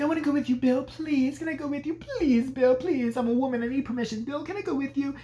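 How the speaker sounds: high-pitched begging, imitating a needy girlfriend; mock pleading. Alice begging Bill to take her along, high mock pleading.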